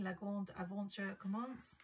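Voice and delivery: self-consciously amateur French accent; French phrase in a clumsy French accent; terrible French accent. Shown as a demonstration. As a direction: read it in French with an English speaker's accent. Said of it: "That's my terrible French accent".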